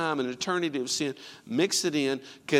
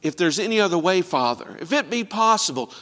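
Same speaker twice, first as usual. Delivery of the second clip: louder, pressing plea; an urgent, louder retold plea; crying out; 2 semitones higher, 5 dB louder than usual. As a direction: raise it into a cry to the Father. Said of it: "crying out to the Father".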